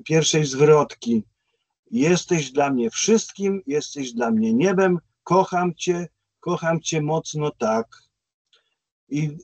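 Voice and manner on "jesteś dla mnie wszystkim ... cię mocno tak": slow, measured verse reading; spoken lyrics at an unhurried pace; reciting song lyrics. Retold or imitated. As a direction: read the lyrics out slowly, line by line.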